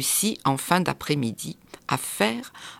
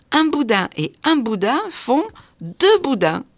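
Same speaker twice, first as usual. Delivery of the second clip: put-on excited child; 8 semitones higher, 6 dB louder than usual. A narrator's reading. Prince proud of answer.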